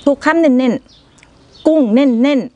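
chewing while talking; speaking between bites; mouth full. Real, not acted. Seen 1: Eats salad by hand throughout; stuffs mouth at 7.7–9.1, chewing visibly.

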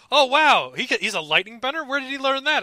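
high-pitched imitation of amazed fans; high, wowed internet-commenter impression; mock amazement. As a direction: act out a clueless fan's surprise. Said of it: "people on the internet being like".

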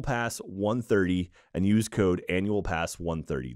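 low, measured sponsor read. Real, not acted. Podcast host pitching Green Chef to listeners, low-key ad read. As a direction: read out the sponsor copy, easy and soft.

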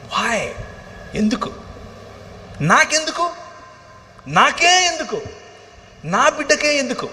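high anguished shouts of why me; crying out at God. Retold or imitated. Father shouting at God over his sick baby, anguished cry. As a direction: hurl the questions at God in anguish. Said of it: "అని దేవునితో కొట్లాడటం మొదలుపెట్టాను".

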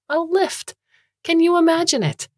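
high-pitched, appalled outburst; shuddering horror. A narrator's reading. Moocher recalls nearly becoming a lift, shuddering. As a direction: recoil from the thought, voice shooting up. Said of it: "There was a shudder in its voice".

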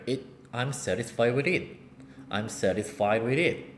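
"sweater" en "satisfied" met getikte t; slow flap T drill. Shown as a demonstration. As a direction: spreek traag met zachte flap. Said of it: "이렇게 될 수가 있다".

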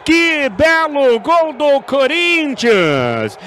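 loud celebrating commentary; explosive goal commentary. Real, not acted. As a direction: keep the goal excitement going.

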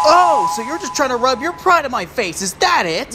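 losing patience. Acted. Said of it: "His patience finally gave out".

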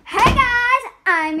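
loud cheerful greeting. Acted. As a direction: announce yourself to the class. Principal greets class loudly.

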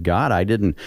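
mild mock scream at God, pitch jumping on the repeats; indignant complaint, swooping up on "didn't ask"; retold angry protest. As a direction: retell a fit of anger without really yelling. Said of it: "I got mad and I screamed and I said".

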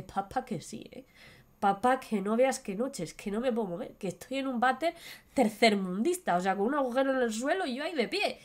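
soft, frightened pleading; a hint of a terrified son; scared son.

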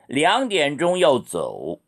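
very slow, careful tones; slow model sentence. Shown as a demonstration. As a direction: drill it slowly. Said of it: "이렇게 읽으세요".

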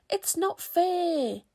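high, loud, drawn-out complaint; aggrieved playground shout; shouted protest. A narrator's reading. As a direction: wail it like a cheated child. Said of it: "the spiders on Scrabble's team shouted".

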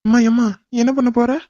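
panicked yelp of protest; alarmed startle. Acted. Man startled as she reaches out.

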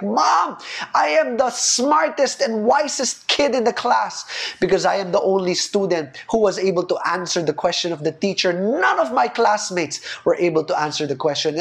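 put-on boastful kid, opening high then settling; bragging boy. Preacher voicing Junjun bragging to his mom, a lightly voiced proud child. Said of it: "and he's like".

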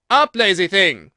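a queen screaming a threat; furious shout. A narrator's reading. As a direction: roar the warning at the Duchess. Queen rouses the sleeping griffin.

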